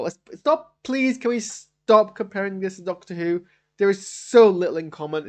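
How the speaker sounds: high, exasperated begging to stop; exasperated plea. Real, not acted. Reviewer pleading with fans to stop comparing shows. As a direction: beg them to drop the comparison.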